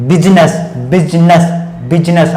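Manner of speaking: बिजनेस as careful BIZ-nas, repeated; two syllables each time in बिजनेस; correct pronunciation. Shown as a demonstration. Teacher models it for students to repeat, correct pronunciation. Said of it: "आप हमारे साथ बोलेंगे".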